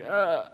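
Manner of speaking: mock groan of self-doubt; exasperated groan. Retelling his lowest times to the congregation, exasperated groan. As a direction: let out a drawn-out, frustrated "ugh".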